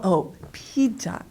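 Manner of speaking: pizza said the Korean way, like "pija"; drawn-out Korean-accented "pizza". Retold or imitated. Listeners finally recognizing the word pizza, in a Korean accent. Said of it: "the accent, they don't understand".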